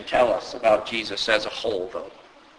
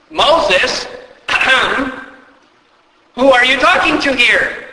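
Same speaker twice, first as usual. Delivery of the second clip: incredulous; 10 semitones higher, 4 dB louder than usual. Pretend. Preacher mock-addresses Moses.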